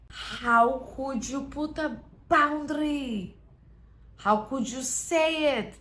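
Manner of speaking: slow, hurt and accusing; guilt-tripping whine. Acted. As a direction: make them feel guilty. Manipulator guilt-trips over a boundary.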